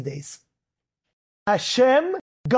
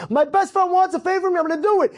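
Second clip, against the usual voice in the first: determined shouting; 6 semitones higher, faster than usual. Retold or imitated. Searcher still shouting in acted quote.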